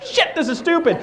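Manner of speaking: exasperated laughing curse; laughing exasperation. Retold or imitated. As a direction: laugh it out in mock disgust. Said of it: "I'm like".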